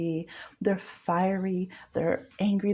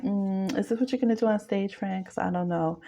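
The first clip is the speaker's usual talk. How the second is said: sardonic. Retold or imitated. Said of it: "a very sardonic kind of energy".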